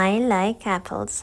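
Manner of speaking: slow, every word spaced out; slow teaching demo; slow model sentence. Shown as a demonstration. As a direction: say it slowly for the class. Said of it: "همون جملهٔ اولمون رو یادتونه".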